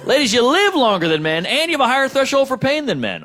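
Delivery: ordinary talk, nothing marked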